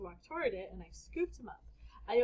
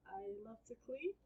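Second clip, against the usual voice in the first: high, soft, sheepish squeak; lame excuse; 10 semitones higher, 7 dB quieter than usual. Acted. Boy giving a lame excuse to his mom, high and soft. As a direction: sell a bad excuse.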